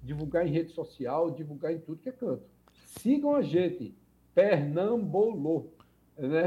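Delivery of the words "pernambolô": Pernambolô said slowly, ending on a closed o; closed final ô. Shown as a demonstration. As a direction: spell out Pernambolô by sound, drawn out and loud, with a closed ô. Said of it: "é com acento circunflexo".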